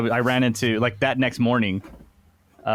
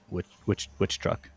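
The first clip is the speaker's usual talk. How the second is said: nervous stammer; 4 semitones lower, 8 dB quieter than usual. Retold or imitated. Startled questioning by police.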